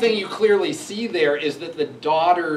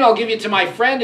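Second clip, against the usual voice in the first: "I'll give you to my friend" shouted higher and louder; angry father; 8 semitones higher, 9 dB louder than usual. Retold or imitated. Capulet threatening Juliet over the chosen husband, "I'll give you to my friend" shouted. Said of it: "he says".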